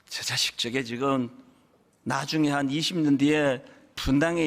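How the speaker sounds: a hint of a sighing father shaking his head; imagined God's pity. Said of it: "그러셨을 것 같아요".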